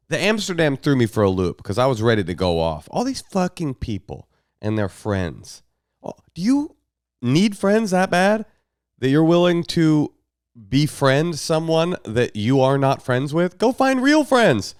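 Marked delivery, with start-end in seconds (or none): 6.0-14.7 incredulous. Real, not acted. Mocking the listener's question.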